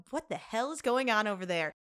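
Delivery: mock-alarmed question; retold bewilderment. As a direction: ask what on earth is happening. Retold reaction to the commotion.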